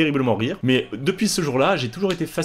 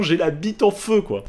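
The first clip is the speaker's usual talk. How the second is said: retold yell; 7 semitones higher than usual. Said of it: "Je hurle en disant".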